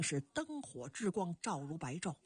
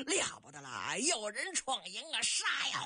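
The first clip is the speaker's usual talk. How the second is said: soldiers' alarm cry. Acted. Soldiers warn that someone is storming the camp, crying out. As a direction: raise the alarm, building to a battle cry. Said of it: "大齐国的兵丁高声喊嚷".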